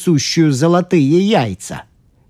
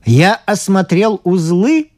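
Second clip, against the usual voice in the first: calm; 6 semitones higher than usual. A narrator's reading. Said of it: "спокойно пояснил эксперт".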